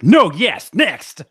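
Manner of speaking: quick, punchy no-yes-next; game-show speed answer; brisk lightning answer. Shown as a demonstration. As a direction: snap it off like a rapid-fire answer. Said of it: "you need to do everything with, like".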